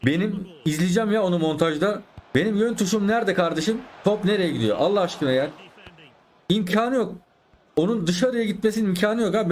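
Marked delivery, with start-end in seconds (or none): 2.3-5.5 high, exasperated complaint; annoyed gamer shout; frustrated outburst. Real, not acted. Angry at controller input. 6.5-9.5 high, incredulous protest; can't believe the miss; shocked gamer; disbelief. Real, not acted. Disbelief at missed shot.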